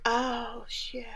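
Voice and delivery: soft, imitated oops under the breath; mock sheepish realization, very quiet; caught-out muttering. Retelling Lenny caught out.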